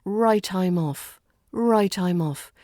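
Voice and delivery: "Right, I'm off" linked as one word; connected speech. Shown as a demonstration. Teacher shows connected speech, "Right, I'm off" joined as one word. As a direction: run "Right, I'm off" together, the t sliding into "I'm". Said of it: "this almost sounds like one word".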